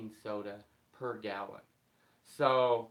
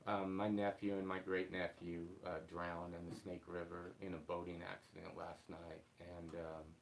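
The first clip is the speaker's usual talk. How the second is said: after crying; 3 semitones lower, 5 dB quieter than usual. Real, not acted. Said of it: "I've been crying a little bit this morning".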